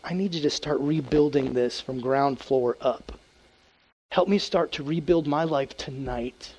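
slow hushed prayer for help. Pretend. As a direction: pray it humbly, rebuilding. Voicing a repentant prayer.

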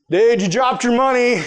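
reluctant call-out to the man who wronged him; grudging call-out. Retold or imitated. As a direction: toss it out without warmth. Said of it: "didn't say it in a very loving way".

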